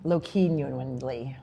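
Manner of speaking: "Low-genuinely" slowly, as low-KEEN-yuinely; sounding out pronunciation. Shown as a demonstration. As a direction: say "Low-genuinely" with key run into -nuinely. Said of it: "I don't know the pronunciation".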